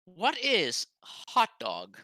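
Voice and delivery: slow, baffled out-of-time newcomer; confused time traveller. Acted. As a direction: drag it out, lightly puzzled.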